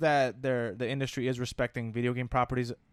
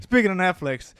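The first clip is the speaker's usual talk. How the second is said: heated family shouting; 5 semitones higher, 7 dB louder than usual. Shown as a demonstration. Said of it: "One more time".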